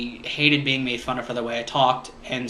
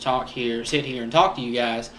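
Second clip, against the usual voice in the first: forced southern accent; 3 semitones lower than usual. Shown as a demonstration. Vlogger showing viewers a forced version, southern accent. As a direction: put on a southern accent, a little low. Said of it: "I mean, I could force it".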